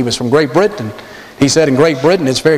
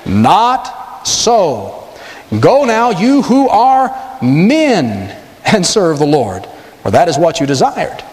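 Pharaoh refusing; much slower than usual. Retold or imitated. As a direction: let Pharaoh sound grudging and lordly. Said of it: "Now watch".

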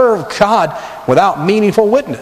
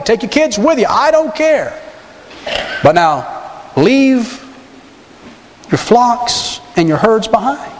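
much higher, careless then slow and sly; Pharaoh's catch; 6 semitones higher, slower than usual. Retold or imitated. Preacher acting Pharaoh's final condition to Moses, higher and slow. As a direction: toss it off, then lay the trap slowly. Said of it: "He's saying".

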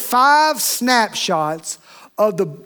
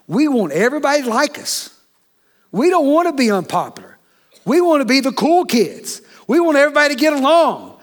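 mocking voice; 5 semitones higher than usual. Preacher mocks people wanting popularity.

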